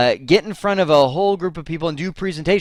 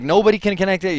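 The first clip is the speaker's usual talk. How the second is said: mildly panicked, higher-pitched quote; retold panic; 6 semitones higher, faster than usual. Technician on the phone to his boss, mildly panicked. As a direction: imitate a technician getting flustered. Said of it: "he's panicking".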